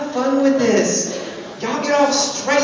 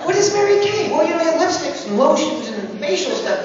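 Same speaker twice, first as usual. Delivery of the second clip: mock outrage; 10 semitones higher than usual. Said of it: "Is this like Mary Kay".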